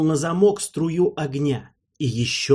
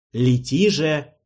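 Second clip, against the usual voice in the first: near command; slower than usual. Acted. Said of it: "почти приказывал голос".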